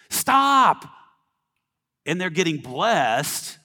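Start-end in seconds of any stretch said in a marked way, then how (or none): 0.1-0.9 sharp high shout of Stop; mock yell. Egyptian yelling at Moses, loud mock shout. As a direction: bark it out like an angry Egyptian. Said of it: "Some of 'em are like".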